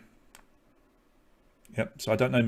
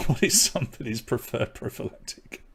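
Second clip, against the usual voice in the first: softer, laughing through the words; amused; 4 dB quieter than usual. Real, not acted. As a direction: chuckle at the awkward question. Host amused by own question.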